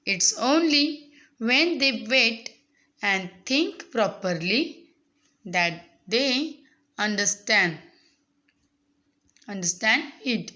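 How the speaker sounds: very slow, phrase-by-phrase reading; teacher's slow read-aloud. Acted. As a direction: read it out slowly for young learners, pausing between phrases. Reads the English text aloud to students. (सावकाश, थांबत थांबत वाचन)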